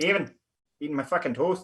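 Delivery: put-on odd Canadian accent. Joking about a couple named Kevin and Carol, in a weird Canadian woman accent. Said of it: "That was a weird, like, Canadian woman accent for a second".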